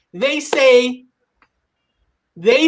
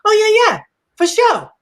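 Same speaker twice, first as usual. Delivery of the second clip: casual cousin; 9 semitones higher, 4 dB louder than usual. Retold or imitated. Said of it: "And he was like".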